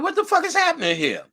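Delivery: can't believe what you're seeing, cracking up; laughing disbelief. Retold or imitated. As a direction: disbelief at the line outside her room, laughing. Seeing the line of men.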